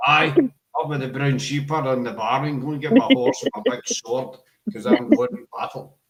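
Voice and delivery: put-on Highland Scots accent, rising to a shout; hammed-up Highland warrior accent. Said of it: "that's my Highland kind of accent".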